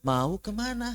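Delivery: "Mau kemana" as a demonstrated question; question tune. Shown as a demonstration. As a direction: ask "Mau kemana" with a swooping melody. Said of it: "Kalau mau nanya itu".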